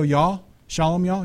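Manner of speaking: slow, mock Southern drawl; Southern accent. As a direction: lightly imitate a Southern accent. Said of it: "'cause in southern part they go".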